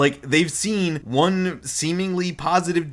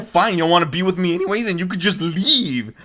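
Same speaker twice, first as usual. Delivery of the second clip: upset; 4 semitones higher than usual. Retold or imitated. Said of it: "Kimiko's getting upset here".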